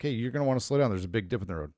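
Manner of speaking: easygoing heads-up, sinking low and soft; calmly mention it, letting the ending drop away; calm warning. Retold or imitated. Husband repeating his warning to wife, calm and low-key. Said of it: "like, calmly".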